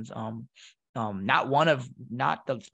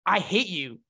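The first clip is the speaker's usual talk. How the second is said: imitating a bratty teenager, pitched up; sulky teen outburst; 8 semitones higher than usual. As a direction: whine it like an angry kid. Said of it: "And I'm like".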